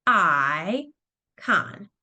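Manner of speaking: Icon said syllable by syllable, I and con split; tapped-out syllables. Shown as a demonstration. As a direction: tap out each syllable of Icon. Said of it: "I'm gonna tap it out".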